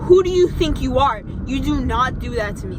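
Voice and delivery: loud, high angry retort. Retold or imitated. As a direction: bark it back, fuming. Retold angry comeback to customer.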